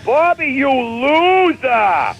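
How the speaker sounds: high, drawn-out mock yell; sister's slow, high mock shout; mock scream from the background. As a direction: yell it like a sister from the next room. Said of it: "She's screaming in the background".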